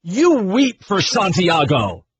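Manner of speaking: lightly hammed-up colonel's speech; deliberate, theatrical start, then run through the line; a hint of stage-actor grandeur; amateur movie monologue. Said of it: "let me do one more line here".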